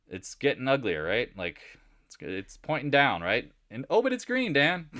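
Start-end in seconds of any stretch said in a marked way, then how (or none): 3.9-4.9 high, loud whiny mock of a follower; mocking viewer protest. Trader imitating people who watch candle colors, high mocking. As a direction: squeal it as an objecting viewer. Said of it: "I love when people are like".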